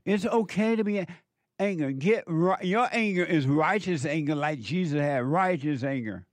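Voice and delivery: a hint of the fired-up preacher, quick; mock preacher. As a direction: lightly mimic a preacher justifying anger. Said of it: "the preacher tell you".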